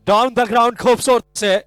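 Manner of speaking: high, loud burst of admiration; thrilled cricket commentator; excited shot call. Real, not acted. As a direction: lift pitch and volume to hail the shot. Live call of good shot.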